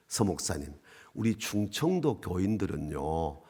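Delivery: lightly voiced elder, low and soft at first; unhurried senior pastor. Senior pastor explaining Chungcheong congregations to a visiting preacher, unhurried.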